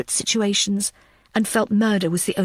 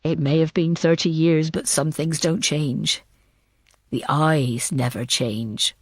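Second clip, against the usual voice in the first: a man recalling, voiced a touch lower; low, steady telling of an old memory; a hint of a cool, unhurried man; Samuel's voice; 5 semitones lower, slower than usual.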